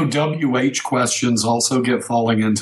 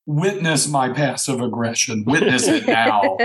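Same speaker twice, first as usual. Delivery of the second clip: mock passive aggression.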